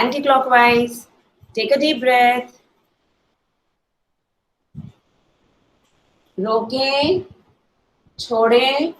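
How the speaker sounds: slow, drawn-out instructions with long pauses; guided breathing cues. Real, not acted. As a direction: count them calmly through each breath, stretching the words. Leads a breathing exercise.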